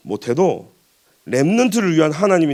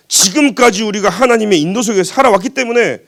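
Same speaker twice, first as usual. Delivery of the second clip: higher-pitched, insistent preacher's delivery; emphatic preaching; 5 semitones higher, 4 dB louder than usual. Real, not acted. Preacher reminding congregation of God's guidance, emphatic. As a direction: press the point on the congregation.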